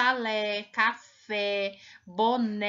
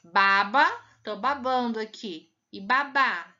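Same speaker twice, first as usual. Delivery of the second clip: loud baba stressed on ba first, babá on the last bá; contrasting stress; 3 dB louder than usual. Shown as a demonstration. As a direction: punch each stressed syllable. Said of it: "muita diferença ou não?".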